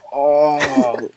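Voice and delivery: long drawn-out imitated groan; half-hearted drawn-out moan; mock moan. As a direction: imitate a hurt man moaning. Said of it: "like, moaning".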